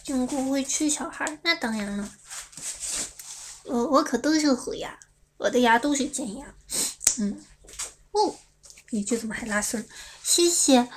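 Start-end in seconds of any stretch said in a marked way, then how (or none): none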